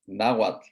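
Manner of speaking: Nahuatl said as NAH-waht after spelling; teacher modelling Nahuatl; model pronunciation. Shown as a demonstration. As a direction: repeat Nahuatl cleanly for the class. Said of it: "N A H U A T L".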